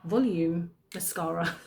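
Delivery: flat robotic product name. Shown as a demonstration. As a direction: say it like a robot announcer. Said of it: "Don't know why I said it like a robot".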